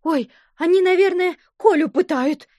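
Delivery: high, loud alarmed cry; a girl close to tears; frightened. A narrator's reading. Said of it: "глаза были полны слёз". (испуганно, высоко и громко)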